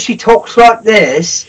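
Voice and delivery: lightly put-on Cockney accent; a touch of Cockney mimicry; Cockney impression. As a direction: slip briefly into mock Cockney. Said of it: "She's got a Cockney accent".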